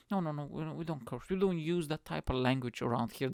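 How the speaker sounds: lightly imitated prudish objection; mild prim mockery. Religious people refusing to curse, mildly mocked. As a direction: mildly mimic someone primly objecting. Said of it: "That's what they always say".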